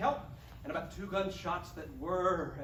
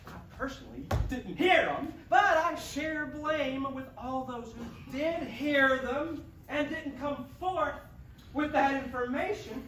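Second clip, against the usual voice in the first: earnest declaration; 4 semitones higher, 4 dB louder than usual. Acted. Grandstanding confession to officers.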